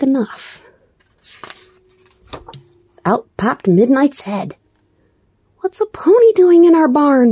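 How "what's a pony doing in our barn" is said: loud high demand. A narrator's reading. Mister Bear demands answers about the pony in the barn. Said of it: "demanded Mister Bear".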